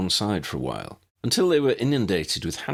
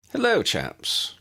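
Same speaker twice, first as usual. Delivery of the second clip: Uncle Ambrose; slower than usual. A narrator's reading. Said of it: "came Uncle Ambrose's voice".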